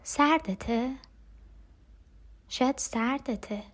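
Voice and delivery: soft, unhurried sisterly care; tender comfort. Acted. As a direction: softly coax your cold sister closer. (دلداری آرام و مهربان خواهرانه)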